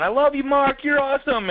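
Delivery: high, gushing fan praise; cheering fan. Retold or imitated. Fan cheering for Mark from the crowd, high and gushing. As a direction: gush like an adoring fan. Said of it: "forty-nine people are cheering, going".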